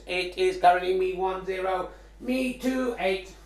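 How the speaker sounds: robot voice. Pretend. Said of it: "Thank you there for the, the Robot Voice".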